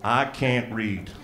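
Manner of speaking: slow deadpan. Retold or imitated. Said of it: "and I wrote".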